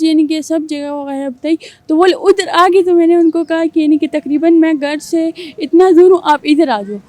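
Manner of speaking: a young man's put-on girlish voice, held through the story; girl's voice. Young man telling the host a story in his put-on girl's voice. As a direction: tell the whole story as a girl would. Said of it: "پورے کا پورا آپ نے مجھے لڑکی کی آواز میں بتانا ہے".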